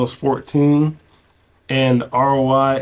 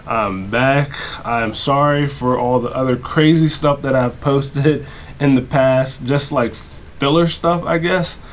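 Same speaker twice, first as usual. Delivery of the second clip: lisp from retainer. Real, not acted. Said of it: "sorry for the lisp as well. I got my retainer in".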